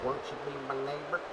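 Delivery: soft, gentle kids' TV host, lightly voiced; Mister Rogers impression. Streamer shows chat the voice is similar, soft Rogers imitation. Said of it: "Just a little bit different".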